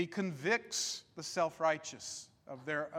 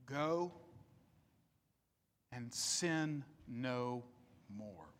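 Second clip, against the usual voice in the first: soft solemn charge; 7 semitones lower, 10 dB quieter, slower than usual. Retold or imitated. Jesus's final charge to the woman.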